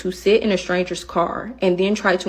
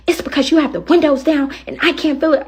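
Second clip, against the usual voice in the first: complaining passenger voice, pitched higher; mimicking the passenger; 7 semitones higher, 3 dB louder than usual. Driver imitating a passenger complaining about windows, whiny. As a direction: whine the complaint back. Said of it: "She's like".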